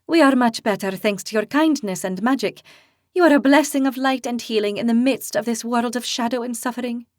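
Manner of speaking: gently thankful, a touch of warmth; mild grateful tone. Acted. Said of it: "she said in a grateful tone".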